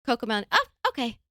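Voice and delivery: put-on high singsong toddler pleading. Daughter asking for Coco Melon, high singsong toddler. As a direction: chant it like a little girl. Mom voices daughter's repeated request.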